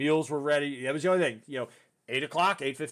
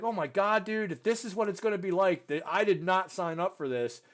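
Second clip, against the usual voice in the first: higher-pitched, mildly panicked protest; retold freaking out; 6 semitones higher than usual. Graduate dreading the camp ahead, mildly freaking out. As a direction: replay your dismay with some urgency. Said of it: "I was freaking out thinking".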